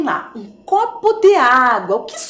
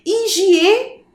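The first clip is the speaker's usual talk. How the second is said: "Higiene" broken as hi-gi-e, pause, ne; syllable by syllable; 8 semitones higher than usual. Shown as a demonstration. Teacher showing children the syllables so far, syllable by syllable. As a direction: hold back the ne of "Higiene" after a high, hanging start. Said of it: "as sílabas que nós já temos ali".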